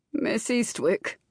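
slow, purring aristocratic drawl; silky purr. A narrator's reading. Gargoyle lord greeting his hostess, purring slowly. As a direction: purr the name, drawing it out. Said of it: "the gargoyle before her purred".

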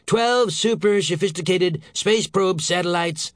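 high, slow, mocking emphasis; scornful snort. A narrator's reading. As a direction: draw it out with contempt. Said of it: "snorted Saint George".

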